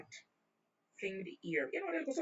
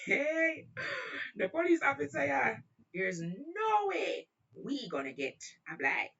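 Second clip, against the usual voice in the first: high, loud retold exclamation; alarmed outburst; 9 semitones higher, 3 dB louder, slower than usual. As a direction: cry out in mock alarm, stretching the words. Panicked retold exclamation to friend.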